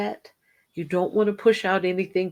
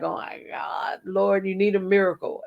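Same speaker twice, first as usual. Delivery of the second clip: mock panic. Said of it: "every month you're like".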